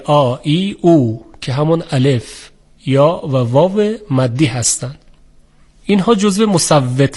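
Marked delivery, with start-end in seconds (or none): 0.0-1.3 "آ، ای، او" as separate lengthened vowels; drawn-out long vowels. Shown as a demonstration. Teacher listing the long vowels of Arabic, lightly stretched "آ، ای، او". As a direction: stretch each of "آ، ای، او" a little, one by one. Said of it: "صداهای کشیدهٔ".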